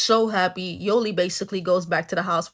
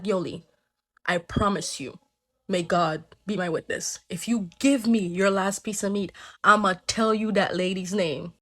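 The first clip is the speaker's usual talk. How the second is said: solemn crab; 2 semitones lower than usual. Acted. Crab makes a solemn vow.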